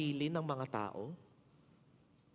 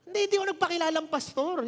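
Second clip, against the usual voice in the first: laughing denial; 11 semitones higher, 6 dB louder than usual. Real, not acted. Laughing off the joke.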